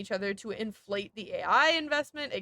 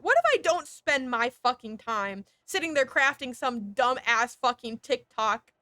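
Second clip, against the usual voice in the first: ordinary delivery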